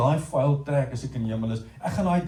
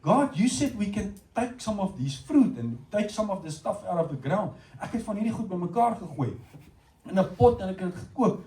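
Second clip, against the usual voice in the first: Eve offering soup; 4 semitones higher than usual. Retold or imitated. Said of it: "And she said".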